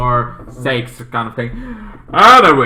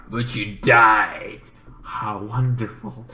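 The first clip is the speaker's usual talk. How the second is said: slow, lower gloating; mock-sweet villain; 3 semitones lower, 3 dB quieter, slower than usual. Killer sister gloating over the dead, slow low purr. Villain ends her taunt.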